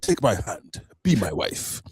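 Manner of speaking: put-on reply in a joking Ugandan accent; mock Ugandan accent. Retelling the general's proposal to onlookers, mock Ugandan accent. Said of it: "I don't know why I'm using that accent".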